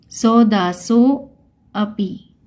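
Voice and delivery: सौदासो, pause, अपि with a clear "a"; avagraha as a. Shown as a demonstration. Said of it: "इसको क्या बोलेंगे". (सौदासो, रुककर "अ" के साथ अपि)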